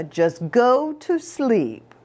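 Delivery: gentle mother. Acted. Mama settling son to bed.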